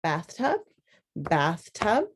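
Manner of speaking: slow, syllable by syllable: "Bathtub, bathtub"; syllable tapping. Shown as a demonstration. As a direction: tap out each syllable of "Bathtub" clearly. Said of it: "so that we can pound it out".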